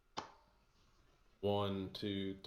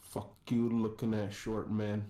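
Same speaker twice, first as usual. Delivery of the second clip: hostile guard challenge; 4 dB louder than usual. Acted.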